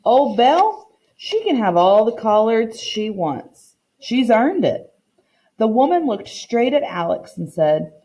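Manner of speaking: reading a picture book aloud to the class, voicing the characters lightly; story narration. Teacher reading a story to her class, storytime narration. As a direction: read it like storytime for children.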